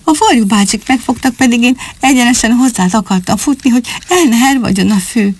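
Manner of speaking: put-on young rabbit telling his mother why he ran; little boy. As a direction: speak like an eager little bunny. Little rabbit boy explains himself.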